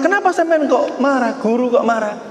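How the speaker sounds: high-pitched mock challenge; acted indignant questioning; challenging an angry person. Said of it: "Kalau ada orang marah-marah".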